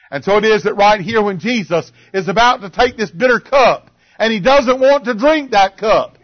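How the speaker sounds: impassioned preaching. Acted. Preacher retelling Jesus facing the cup, impassioned. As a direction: press each phrase home from the pulpit.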